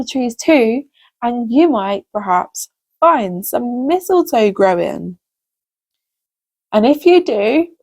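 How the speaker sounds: gentle storybook reading for little ones; lively storyteller voice for children. A narrator's reading. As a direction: read it like a bedtime story to kids.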